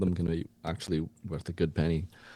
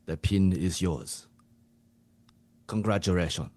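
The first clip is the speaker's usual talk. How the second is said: bestow the prize in a put-on Japanese accent; Japanese coach. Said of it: "you to be the Japanese coach".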